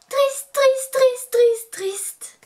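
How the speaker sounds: high, hammed-up wailing triste; playful mock-tragic wail over a finished serum; mock sad wail. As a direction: fake lament, sung and overdone. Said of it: "J'ai pas l'air triste".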